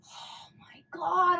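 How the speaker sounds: slow whispered sob; tearful whisper. Real, not acted. Grieving viewer whispering through tears. Crying while watching.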